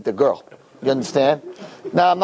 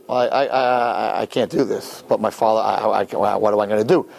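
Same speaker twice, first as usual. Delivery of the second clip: low, halting, stammered dithering; flustered stammer; 5 semitones lower than usual. Acted. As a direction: stumble over the words, at a loss. Panicked date stuck at door.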